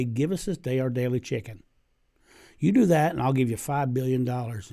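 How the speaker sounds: lightly played Southern drawl. Colonel Sanders asks the Pope to change the prayer in a Southern drawl. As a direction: bargain like a mild Southern businessman. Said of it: "in a southern drawl".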